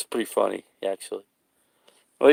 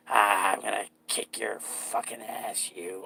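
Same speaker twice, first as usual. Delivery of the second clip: menacing clown threat; 3 semitones lower, 6 dB quieter, slower than usual. Acted. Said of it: "Pretty good acting there".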